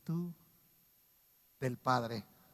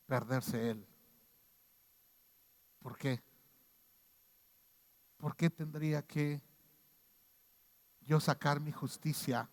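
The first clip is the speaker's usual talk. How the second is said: sorrowful pleading; 2 semitones lower, 3 dB quieter than usual. Retold or imitated. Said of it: "Jesús me mostraría su rostro llorando".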